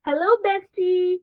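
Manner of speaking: high, happy hello; cheerful greeting. Shown as a demonstration. Calling a best friend, cheerfully high. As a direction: greet your friend brightly. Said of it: "I'm calling my best friend".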